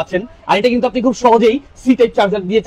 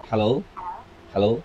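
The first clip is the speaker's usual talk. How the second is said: much lower, electronically altered hello; voice changer demo; 11 semitones lower, 11 dB quieter than usual. Shown as a demonstration. Reviewer demos the neckband voice changer, deep altered voice. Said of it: "voice চেঞ্জের সুবিধা".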